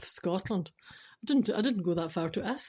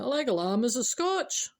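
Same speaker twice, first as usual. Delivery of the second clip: higher, broader Scottish question; Scottish customer; 4 semitones higher than usual. Acted. Customer asking a Scottish butcher for lamb, broad Scottish. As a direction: play up the Scots, rising at the end. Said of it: "imagine going into a Scottish butcher".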